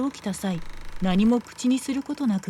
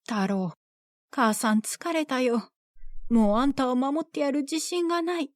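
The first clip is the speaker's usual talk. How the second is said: tearful mother; 4 semitones higher than usual. Acted. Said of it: "母は泣きながら".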